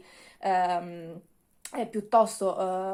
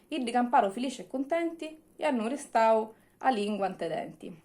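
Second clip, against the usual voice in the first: reading a happy ending in Sicilian dialect; fond storyteller in Messina Sicilian. Acted. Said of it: "Vi leggo com'è finita".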